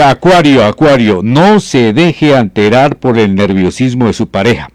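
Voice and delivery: lifted, presenter-style horoscope announcement; horoscope reading voice. Acted. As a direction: read the sign like a radio astrologer. Starts reading the Acuario horoscope.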